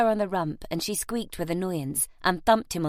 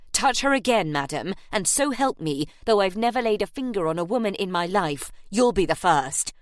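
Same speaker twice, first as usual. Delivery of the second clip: loud, cold threat to an attacker; Harry threatening Missus Beasley, loud and grim; 3 dB louder than usual. Acted. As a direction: warn her off, barely holding back.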